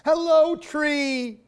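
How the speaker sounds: loud, high happy hello; shouted greeting. Acted. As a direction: greet an old friend joyfully. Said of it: "shouted Albert".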